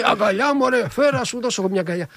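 high, laughing imitated Mikis; imitating a laughing, high-voiced hug offer; Mikis impression. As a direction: pitch up, chuckling, arms-open offer. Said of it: "με το στυλ του".

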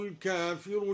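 الكافر with an open ك and a long a after it; singular al-kafir. Shown as a demonstration. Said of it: "بفتح الكاف وألف بعدها".

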